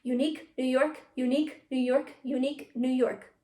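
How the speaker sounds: three quick rounds without a breath; fast and crisp. Shown as a demonstration. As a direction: rattle off the tongue twister, keeping it crisp. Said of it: "say it three times fast without breathing in between".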